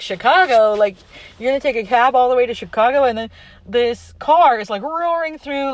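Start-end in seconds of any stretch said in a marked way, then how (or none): 0.0-3.0 incredulous question. Retold or imitated. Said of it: "And the guy's like".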